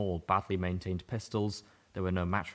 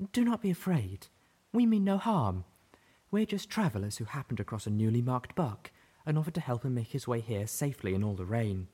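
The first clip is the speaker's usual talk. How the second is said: calming voice; 4 semitones higher than usual. A narrator's reading. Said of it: "her voice calming".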